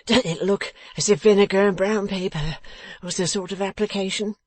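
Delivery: high, pained, pleading question; moaning. A narrator's reading. Beaten man asking about vinegar and brown paper, moaning. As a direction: ask it with a whimper in the voice. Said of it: "still rocking and moaning".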